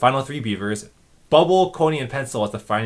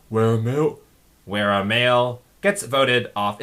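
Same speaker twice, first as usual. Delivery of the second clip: announcer cadence. Retold or imitated. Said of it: "the cadence ... sound like the announcer".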